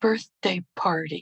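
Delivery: soft, hushed, breath-only half-whisper. Retelling what a child suddenly said: imitating a half-whisper. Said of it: "he whispered".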